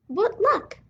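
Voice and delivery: a sudden burst of glee at good luck; bright, happy cry of good fortune; excited. Acted. Mouse delighted by letter.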